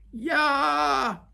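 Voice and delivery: high, loud battle yell; wild Viking war cry yell. Acted. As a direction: roar the hooligan war cry. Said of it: "yelled Gobber the Belch".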